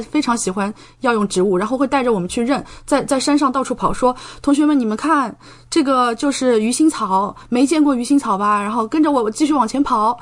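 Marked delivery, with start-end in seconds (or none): 4.4-8.6 keen teacher calling to students on the hillside, excited. Retold or imitated. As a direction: show off the herb like a thrilled botany teacher. Teacher excitedly showing herbs on mountain.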